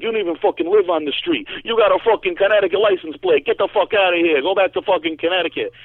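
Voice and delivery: imitating an irate driver, high and loud; mock furious rant, pitch way up; angry driver. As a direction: yell a heated, high-pitched telling-off. Retold angry driver telling him off.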